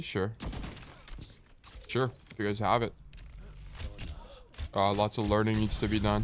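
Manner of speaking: blocked nose, nasal voice; stuffy nose. Real, not acted. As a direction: speak through a stuffed nose. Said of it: "You sound stuffy?".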